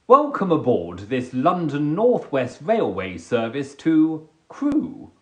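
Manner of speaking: lightly voiced train announcer; mild rail announcer read; train announcement. Shown as a demonstration. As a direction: read it like a platform tannoy, a touch formal. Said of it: "I've got to do a voiceover".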